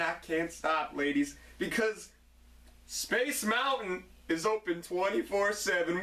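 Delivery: a hint of a swaggering wrestler promo line; Ric Flair impression. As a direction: brag it like a cocky champion. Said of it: "Ric Flair would break into my house".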